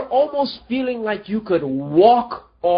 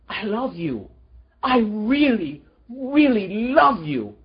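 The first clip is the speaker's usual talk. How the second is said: tender voice of God; 2 semitones lower than usual. Acted. God speaks through a person.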